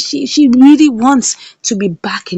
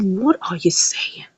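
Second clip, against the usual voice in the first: soft, slow whispered question; stunned whisper; 7 dB quieter than usual. Retold or imitated. Mother whispers back, stunned, to Flora, slowly. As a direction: breathe it out in disbelief.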